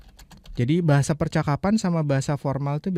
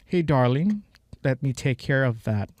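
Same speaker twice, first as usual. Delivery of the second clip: imitating the clip; slower than usual. Shown as a demonstration. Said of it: "Darling itu sayang kan?".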